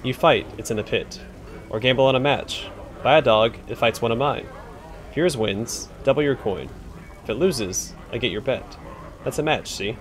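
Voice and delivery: a lightly voiced surly pit manager brushing him off; gruff pit boss. Surly telling the visitor to beat it, light gruff voice. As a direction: grumble it like a rude bouncer.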